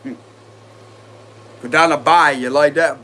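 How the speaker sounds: put-on slow, drawn-out Cajun accent down the bayou; mock Cajun accent. Tarot reader hamming up a Cajun accent for fun, slow and drawn-out. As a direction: stretch it out in a playful Cajun accent. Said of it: "the Cajun accent".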